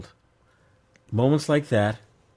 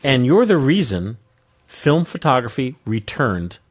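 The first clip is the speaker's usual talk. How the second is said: slow radio DJ read; Casey Kasem voice; slower than usual. Acted. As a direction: read it like a long-distance dedication. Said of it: "I feel like Casey Kasem".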